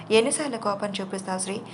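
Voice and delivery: plain reading voice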